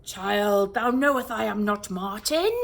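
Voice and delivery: a hint of a pompous wizard; lightly voiced warlock. A narrator's reading. Murden correcting Rose, lightly stately. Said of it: "archaic warlock voice".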